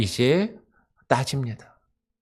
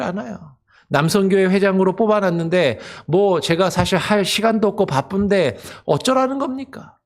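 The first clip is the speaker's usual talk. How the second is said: higher, put-upon grumbling; complaining churchgoer; 4 semitones higher than usual. Retold or imitated. Church member grumbling to the pastor, higher aggrieved whine. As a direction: air a string of grievances to the pastor. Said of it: "그렇게 따지고 불평하는 것과 같다".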